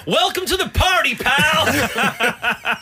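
high, hammed-up action hero quip; movie quote impression. Leaning out a window, mock hero quip. Quoting Die Hard line.

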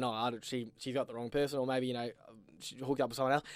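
soft, low puzzled thinking; inner thought. Retold or imitated. Retelling his confused thought on the dance floor, softly. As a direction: think it to yourself under your breath. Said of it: "And I'm thinking".

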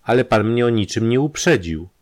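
a touch of alarm in self-defence; frightened. Acted. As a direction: protest timidly, voice lifted. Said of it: "odparła przestraszona dziewczyna".

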